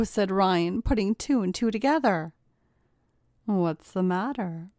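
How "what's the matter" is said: slow, silky purr. Acted. Kayla purring slowly at her trapped brother-in-law. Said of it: "purred Kayla".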